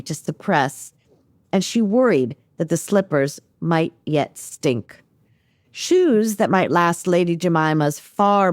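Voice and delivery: measured storytelling with deliberate phrasing; novel read aloud. Acted. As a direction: read the passage aloud in your own voice, lingering on phrases. Author reads aloud from her novel.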